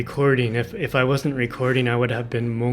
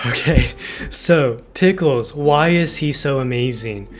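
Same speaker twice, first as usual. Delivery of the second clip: excited; 5 dB louder than usual. Real, not acted. Hypes her favorite character.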